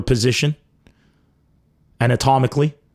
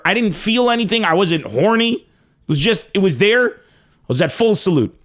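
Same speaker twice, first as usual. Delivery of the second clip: ordinary talk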